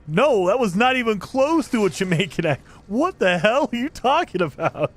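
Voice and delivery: mock-outraged retort; retold exasperation. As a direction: act out your disbelieving comeback. Retold exasperated reply to coworker.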